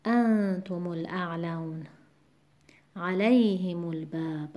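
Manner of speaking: انتم and علیهم stressed as if م had sukun, slow; slow recitation demo; stress kept as if sukun. Shown as a demonstration. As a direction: keep the sukun stress while linking.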